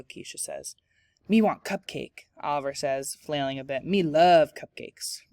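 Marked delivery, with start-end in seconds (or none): 1.3-2.3 a touch of hungry puppet monster, pitched up; lightly voiced cookie-crazed monster talk. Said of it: "Cookie Monster who talks like that". 3.8-5.2 slow, louder greedy monster voice; hammed-up monster craving, loud and slow; Cookie Monster. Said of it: "Cookie Monster who talks like that".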